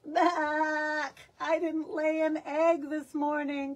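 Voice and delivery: grumpy hen fussing; complaining hen. Acted. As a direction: hen clucking her grievance. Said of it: "complained Hen".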